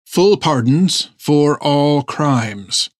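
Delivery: slow, sour repeat of the offer; with distaste. Acted. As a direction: say it like it tastes bad. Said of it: "the captain said with distaste".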